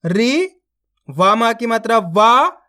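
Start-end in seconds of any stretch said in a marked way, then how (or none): 0.0-0.5 री with only a brief i; री said briefly, short i; short i demo. Shown as a demonstration. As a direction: keep the i in री short. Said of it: "इतना ही खींच के पढ़ना है इसको".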